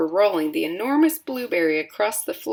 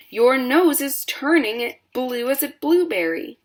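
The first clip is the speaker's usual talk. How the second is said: higher, urgent and alarmed; panicked mother; 6 semitones higher, 4 dB louder than usual. A narrator's reading. Mother frantic at the blue nose, higher pitch. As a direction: keep the panic going. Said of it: "screamed Missus Beauregard".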